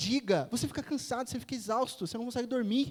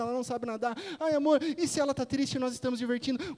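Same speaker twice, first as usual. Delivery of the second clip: imitating a fretting wife, slightly raised pitch; hammed-up worried pleading; anxious wife; 3 semitones higher, faster than usual. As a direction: pile up worries in a mock-anxious spiral. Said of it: "Ficou o dia inteiro angustiada".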